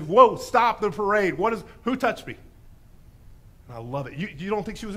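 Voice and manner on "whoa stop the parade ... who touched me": booming whoa to stop everything; commanding halt. Retold or imitated. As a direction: halt the crowd with authority. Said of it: "This Messiah says".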